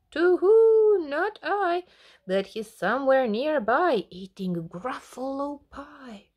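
high, loud hooting owl. Acted. Owl answering the Gruffalo's child with a hoot.

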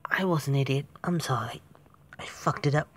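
whispered, rueful self-blame; real whispered apology. Real, not acted. Gamer apologizing after messing up, whispered. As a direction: breathe it out, ashamed.

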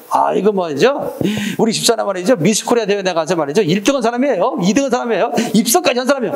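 hammed-up proud husband; mock bragging. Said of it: "안 된다는 거지".

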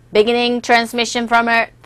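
a hint of a monotone machine; robotic machine voice. Shown as a demonstration. Teacher voices the machine in a light monotone robot voice. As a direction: read it evenly like a machine. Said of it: "꼭 기계가 얘기하는 그런 톤이잖아요".

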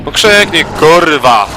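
loud, high, exasperated demand; shouted taunt. Real, not acted. Player daring the monster to scream, shouting. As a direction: shout the order at the enemy. Louder repeat, taunting game enemy.

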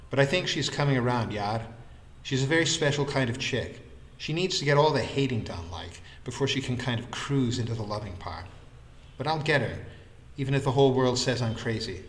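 a hint of a hopeful, brash pal; lightly voiced lively friend. Vikram insists he'll get her, lightly voiced and hopeful.

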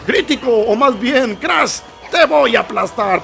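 slow, menacing villain voice; mock boss threat. Commentator voicing the boss threatening to crush him, slow mock menace. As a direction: play the boss gloating over Crash. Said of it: "Seguramente está diciendo".

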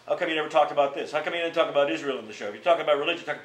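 fast, loud high-pitched mock harangue; imitating the old critic's fast, loud nagging; mocking his rant. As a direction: rattle off the critic's complaints like a hectoring heckler. Davis ranting at the show.

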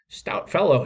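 bright, smiling and approving; pleased, a grin in the voice; a friendly pat on the back in words; with a smile. A narrator's reading. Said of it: "he said with a smile".

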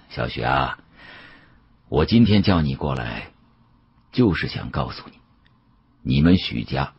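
put-on an elderly dealer musing with regret; a hint of a weary old man; old Yao's voice. Old Yao warns narrator.

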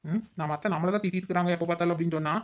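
normal talking voice

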